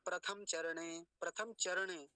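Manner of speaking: "प्रथम चरणे" with a closed final म; mistaken pronunciation. Shown as a demonstration. Teacher quoting a common error, vowelless म. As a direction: run "प्रथम चरणे" together, no vowel after म. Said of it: "क्या बोलते हैं".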